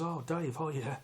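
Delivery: light surprised greeting; caught by surprise. Retold or imitated. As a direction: mildly replay being caught off guard. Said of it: "I surprised".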